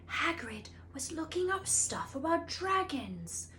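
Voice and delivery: hushed secretive whisper. A narrator's reading. Ron telling Harry and Hermione about Hagrid's books, whispered. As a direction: keep it secret from the room.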